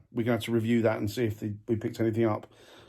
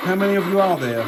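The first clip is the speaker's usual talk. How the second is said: raised voice calling into the room; 4 semitones higher, 5 dB louder than usual. Real, not acted. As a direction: call out to an unseen presence. Calling out to spirits.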